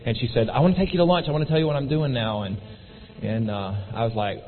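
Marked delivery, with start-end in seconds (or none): 0.5-2.4 mildly excited retelling, higher at the start; excited friend. Retold or imitated. Customer invites her salesman to lunch, mildly excited. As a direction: lightly imitate an eager invitation. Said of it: "she always is excited".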